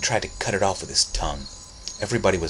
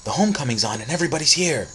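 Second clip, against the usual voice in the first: put-on tentative boy; 7 semitones higher, 3 dB louder, faster than usual. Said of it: "Timothy ventured".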